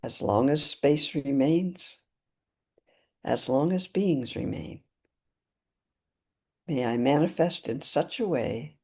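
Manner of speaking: measured, deliberate prayer with long pauses between phrases; spoken Buddhist aspiration prayer, evenly paced; prayer recitation. Real, not acted. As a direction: recite a refuge vow phrase by phrase, unhurried. Recites refuge and intention prayer.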